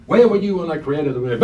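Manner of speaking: a hint of a harsh God interrogating; mildly stern voice of God questioning Job; stern accusing God. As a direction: read it as God sounding cold and accusing. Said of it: "God can come across like that".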